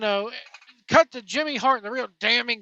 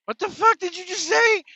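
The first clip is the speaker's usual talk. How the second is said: high, incredulous mock question; baffled interviewer; 9 semitones higher than usual. Host voices the bewildered interviewers reacting to Atlas, high and incredulous. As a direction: sound stunned and confused. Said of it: "the people interviewing him go".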